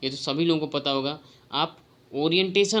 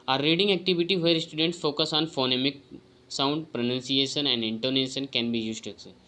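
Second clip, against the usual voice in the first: slow, deliberate reading of a test item; careful exam-prep read-aloud; slow question reading; much slower than usual. Acted. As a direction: read each word out carefully to the class. Reads quiz item aloud.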